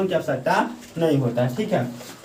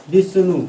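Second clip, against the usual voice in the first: विष्णु louder with the weight on वी; stress on वी; 5 dB louder than usual. Shown as a demonstration. Teacher repeating विष्णु for the class, stressing वी. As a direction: punch the opening वी in विष्णु. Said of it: "वी पर हम ज़्यादा जोर डालते हैं".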